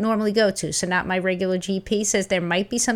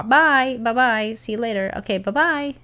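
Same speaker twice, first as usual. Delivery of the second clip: mock dismissive bye; 3 semitones higher, slower than usual. Brushing off the dealer, mocking.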